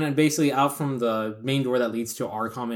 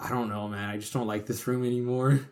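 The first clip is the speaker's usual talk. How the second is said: quiet shaken; 5 dB quieter than usual. Retold or imitated. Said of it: "he's like".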